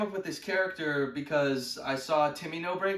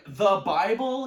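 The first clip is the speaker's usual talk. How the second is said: drawn-out, louder exasperated question; mock scream; 5 dB louder, slower than usual. Losing his mind at his friend, mock scream. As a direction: stretch it out in mock outrage. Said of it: "I scream at him".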